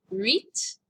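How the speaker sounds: "Huit" with rising tune, opening on a French U glide. Shown as a demonstration. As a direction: model "Huit" questioningly, tight U into "eet". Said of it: "this has a U sound".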